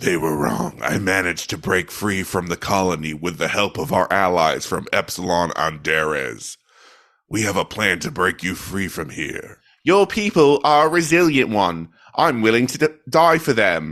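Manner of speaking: rough, gruff tone. Doing voices for a scene, voicing the man's part, gruff accent. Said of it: "the man will be in like a um gruff accent".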